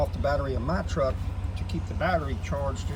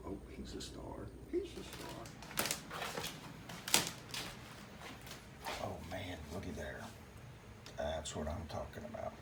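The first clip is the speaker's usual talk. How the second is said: hushed; 10 semitones lower, 17 dB quieter than usual. Real, not acted. Dog still asleep, early morning.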